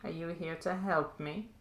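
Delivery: distorted sinister voice over an intercom; menacing villain savouring his work. Acted. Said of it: "you hear a very distorted, uh, sinister voice".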